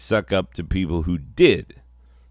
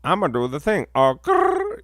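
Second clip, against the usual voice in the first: higher imitating slang, ending in a growl; mock slang growl; 7 semitones higher, 3 dB louder than usual. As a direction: parody the noise people make. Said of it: "that sound that people be doing now".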